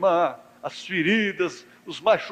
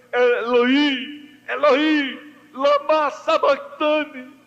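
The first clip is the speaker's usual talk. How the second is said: anguished cry; 8 semitones higher, slower than usual. Retold or imitated. Jesus on the cross crying to God, high anguished cry. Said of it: "O brado que houve lá foi".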